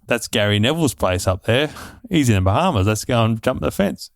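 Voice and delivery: put-on half-hearted geezer accent; a hint of British geezer accent. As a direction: lightly put on a geezer voice, not going all in. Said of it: "That's my worst sort of geezer accent".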